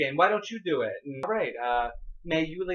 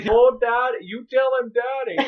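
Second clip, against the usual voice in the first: loud, higher, laughing taunt; laughing heckle; 8 semitones higher, 8 dB louder than usual. Retold or imitated. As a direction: cackle from the bench.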